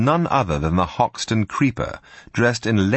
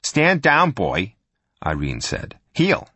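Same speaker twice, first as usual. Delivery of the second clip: commanding; 3 semitones higher, slower than usual. Acted. Commanding a man like a dog.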